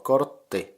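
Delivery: "kortti" split into kort, pause, ti; syllable by syllable. Shown as a demonstration. Teacher joining the syllables up, "kortti" still clearly split. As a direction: hold the double t in "kortti", then release ti. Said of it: "the syllables in it are".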